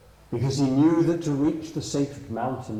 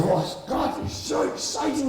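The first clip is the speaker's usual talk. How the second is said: excited whisper; 12 semitones higher than usual. Acted. Mouse thrilled by discovery.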